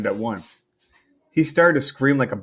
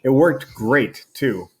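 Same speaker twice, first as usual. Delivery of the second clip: dry sarcasm; 3 dB louder, much slower than usual. Acted. Steven's sarcastic reply to Mom.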